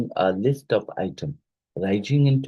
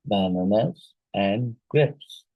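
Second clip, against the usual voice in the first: slow, spaced "bananas and grapes", marking the last item; falling list ending; slower than usual. Shown as a demonstration. Teacher showing the class the end of a list, falling list ending. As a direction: draw out "bananas", then set down "grapes" as the last.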